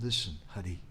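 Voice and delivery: sweet voice. Retold or imitated. Radharani reasoning with Hari, in a sweet voice. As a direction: voice her sweetly and quietly. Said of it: "in a very sweet voice she said".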